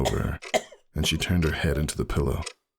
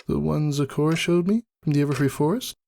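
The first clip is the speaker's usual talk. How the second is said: higher, gentle sick mare; Roseluck's voice; 12 semitones higher than usual. A narrator's reading. Roseluck apologizes to Ember from her hospital bed.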